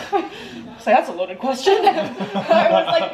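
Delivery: high, slow giggling; amused real laughter; laughing. Real, not acted. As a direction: laugh as you tell it. Laughing at loaded question.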